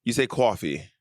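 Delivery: mock New York "coffee". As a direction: tease her over "coffee". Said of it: "I do not say coffee".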